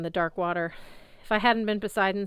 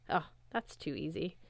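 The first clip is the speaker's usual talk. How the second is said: evilly; 7 dB quieter than usual. Acted. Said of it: "he said evilly".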